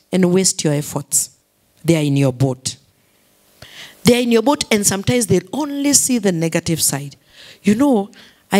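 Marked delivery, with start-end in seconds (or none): 4.0-4.6 louder repeat. Acted. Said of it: "repeated louder".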